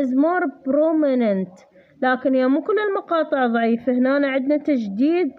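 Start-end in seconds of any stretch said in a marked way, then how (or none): 0.0-1.6 is more prominent read out very slowly; slow reading aloud. Shown as a demonstration. Tutor reading the textbook slowly to the student. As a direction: drag each word as if dictating. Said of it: "reads textbook line slowly".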